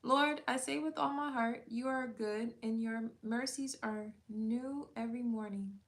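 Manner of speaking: earnest prayer read aloud, opening strong. Acted. Leading viewers in a prayer against complaining, earnest prayer. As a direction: pray it sincerely, word by word.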